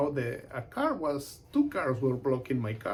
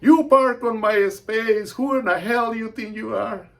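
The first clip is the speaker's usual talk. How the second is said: angry tirade; 8 semitones higher, 12 dB louder than usual. Retold or imitated. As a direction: tell him off for taking your spot. Neighbour angry over parking space.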